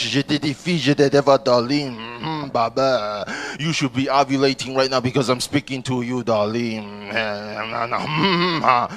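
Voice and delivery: put-on low, purring French accent. Comic imitating a European wooing women, hammed-up French accent. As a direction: seductive mock-French patter. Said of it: "like, you're French".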